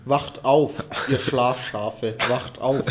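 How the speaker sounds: hammed-up rallying call; mock wake-up call. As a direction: rouse the sheeple, mock preacher.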